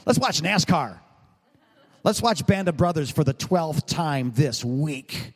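mock enthusiasm of a TV-loving husband; lightly acted eager husband. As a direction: play up a husband's eagerness a little. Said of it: "And I'm like".

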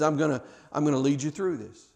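understated, tender promise. Acted. God's comfort, voiced by preacher.

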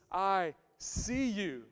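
"I see you" drawn out slowly; slow sincere "I see you"; slow and tender. Shown as a demonstration. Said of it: "empathy says".

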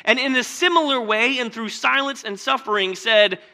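loud, high, urgent sermon delivery; fervent preaching. Acted. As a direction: drive the point home from the pulpit. Preacher building to climax.

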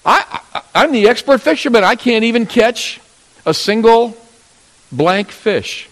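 high, loud, fed-up outburst; exasperated self-disgust. Retold or imitated. Peter berating himself after a fishless night, exasperated. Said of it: "Peter must have been thinking to himself".

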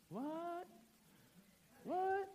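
high, soft, squeaky rising what; exaggerated hushed astonishment; mock disbelief. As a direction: ask in tiny high-pitched amazement. Mock disbelief at memorized Torah.

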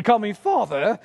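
light put-on English accent on "Father". Shown as a demonstration. Dad showing how he wants his children to address him, English accent. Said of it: "in an English accent".

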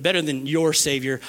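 ordinary talk, nothing marked

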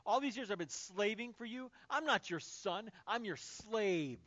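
angry, slowing to heavy emphasis; bitter resentment. Acted. Elder brother complaining to his father, angry and resentful. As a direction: drag out the last bitter complaint. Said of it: "angry, bitter resentment".

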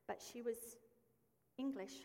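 slow words through a breathy laugh; amused, laughing lead-in. Real, not acted. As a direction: laugh as you say it.

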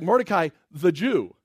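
"the Jew" set apart slowly and deliberately; slow down and land hard on "the Jew"; stress on THE JEW. Retold or imitated. King's order repeated to Haman, stressing "the Jew". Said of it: "He doesn't even just say Mordecai".

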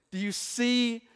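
the voice breaks upward mid-question; voice cracking. Real, not acted. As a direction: voice cracks up high. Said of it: "My voice just cracked like an eight-year-old".

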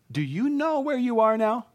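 high, searching call of a father; tender God calling. Acted. Preacher voicing God calling Adam, high and searching. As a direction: call out gently, looking for your child.

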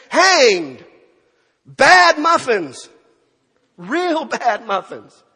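booming, drawn-out comic verdict; loud comic punchline. Real, not acted. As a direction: belt out the punchline, stretching each word. Punchline on the baker's fate.

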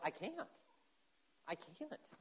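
soft, defeated admission; a broken, quiet surrender; giving up. Acted. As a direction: let it fall away to nothing. Admitting helplessness, voiced quote.

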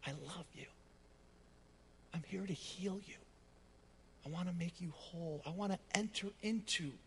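soft, hushed and tender; preacher voicing God's whisper after the roar. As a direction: whisper it like a gentle promise.

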